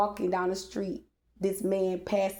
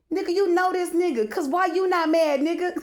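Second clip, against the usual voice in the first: much higher and louder, laughing in disbelief; incredulous accusation; 10 semitones higher, 5 dB louder than usual. Retold or imitated. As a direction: call out the boyfriend, half laughing. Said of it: "But now that I'm awakened".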